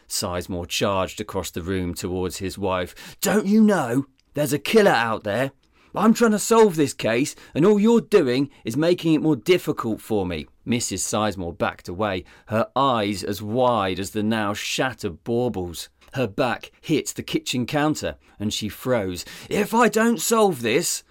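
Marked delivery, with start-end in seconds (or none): 3.2-10.5 high, loud angry tirade; furious rant. Acted. Detective yelling at his wife over the case, furious. 19.5-21.0 high, loud shout. Acted. Detective shouting at his cowering wife, loud. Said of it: "Sizemore shouted".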